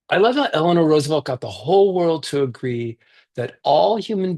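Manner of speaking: put-on reading a picture book aloud to kids; gentle read-aloud for a virtual story circle; story narration.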